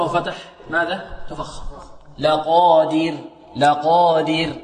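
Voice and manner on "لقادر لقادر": لقادر with a light, thin final ر after a clear kasra. Shown as a demonstration. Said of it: "الترقيق، كما في قوله لقادر".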